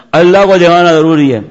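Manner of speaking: loud demand. Retold or imitated. Young man loudly demanding the sheikh show God. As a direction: call it out with brash confidence.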